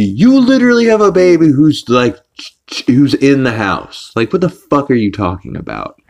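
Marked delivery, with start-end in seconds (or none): 0.0-4.1 high-pitched, incredulous protest; hammed-up indignation; exasperated rant. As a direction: hammer home the obvious in disbelief. Ranting back at the couple.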